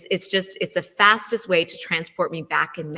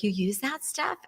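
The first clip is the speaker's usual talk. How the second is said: mildly surprised, softer question; higher, hushed mock surprise; retold shock; 4 semitones higher, 5 dB quieter than usual. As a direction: quietly imitate a friend's disbelief. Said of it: "genuinely shocked".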